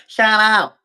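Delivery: high-pitched mock tough-guy yell; retold yell. Mimicking the neighbour who called the cops, mock tough yell. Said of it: "a couple of days out yells out".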